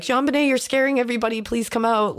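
lightly acted call to a hiding child; imitating calling out. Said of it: "he was calling for her".

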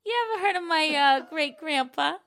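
put-on high, posh old-money transatlantic accent; old Hollywood transatlantic flourish. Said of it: "a transatlantic accent".

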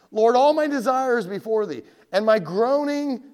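loud, high plea to God; David crying out. Acted. Preacher voices David praying under his burden, crying out. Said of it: "David cried out".

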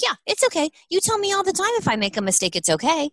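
put-on high, sweet child voice comforting mom; be a small girl reassuring her mother; little daughter's voice. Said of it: "She goes".

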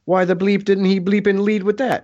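mock exasperated delight; imitated friend laughing in disbelief. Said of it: "he was very enthusiastic".

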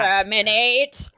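rising robotic Dalek call. Pretend. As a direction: bark it like a Dalek. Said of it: "if you're all Daleks".

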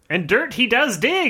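put-on old-timey voice. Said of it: "I'm gonna talk an old-timey voice".

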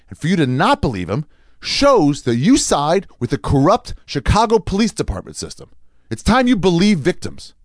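high, slow, emphatic proclamation; mock righteous indignation. Comedian preaching belief in Jussie Smollett, mock-righteous declaiming. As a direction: declaim it slowly like a crusading activist.

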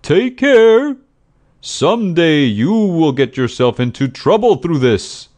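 loud warning, starting very high and coming down; shouted warning. A narrator's reading. Friend warns the raging woman.

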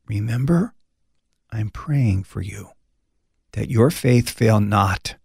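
soft, gentle, slowing down; Jesus gently reassuring a broken Peter; tender reassurance. Acted. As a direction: comfort him quietly. Jesus' tender look voiced.

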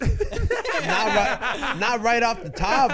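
amused, hedging through laughter; laughing. Real, not acted. Put on the spot by a friend's question, laughing. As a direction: answer through a real laugh.

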